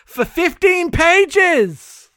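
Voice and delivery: high, loud and slow; exasperated. Real, not acted. Reviewer ranting about a tedious chapter, exasperated. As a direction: drag it out in outrage.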